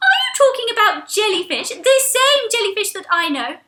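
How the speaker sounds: high, bright friend's voice; Angel the friend. Acted. Angel asks Mac about the jellyfish, puzzled and high. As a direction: sound puzzled and sweet.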